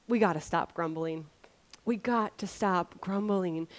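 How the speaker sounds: a quiet firm reminder; quiet sincere label. Shown as a demonstration. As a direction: say it gently to yourself. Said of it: "I just labeled for myself".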